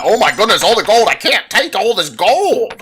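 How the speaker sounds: high, loud giddy squeal; an old man gushing like an excited five-year-old; mock elderly man overjoyed at gold; old man acting childish. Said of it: "act like he was some five-year-old".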